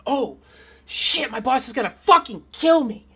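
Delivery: high, loud acted dismay; hammed-up alarm, pitched well up; panicked turtle. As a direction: cry out as a character in big trouble. Turtle sees buddy's body, panics.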